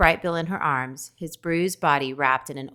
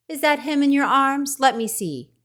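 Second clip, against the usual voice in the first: high, louder, eager little animal voice; a small creature leaning in to look; curious skunk; 10 semitones higher, 5 dB louder than usual. A narrator's reading. Skunk asking the robot to see her baby, high and curious.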